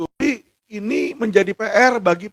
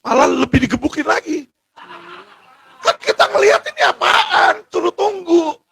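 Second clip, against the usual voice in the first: anguished outcry; 8 semitones higher than usual. Real, not acted. Lawyer crying out over detainees being beaten, anguished and high. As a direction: voice cracking high with outrage and near tears.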